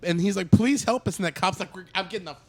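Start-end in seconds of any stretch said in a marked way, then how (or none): 0.5-1.2 high, imploring imitation; retold desperate plea; acted pleading. Acting character begging the cop. 1.8-2.4 high-pitched imitation of a fleeing cop; retold frightened refusal; acted panicked exit.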